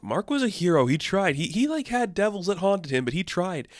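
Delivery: a lightly voiced grieving Marlene, high; hammed-up tearful tribute; mock eulogy. Marlene at Mark's funeral, in a high mock-mournful voice. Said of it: "where Marlene is saying".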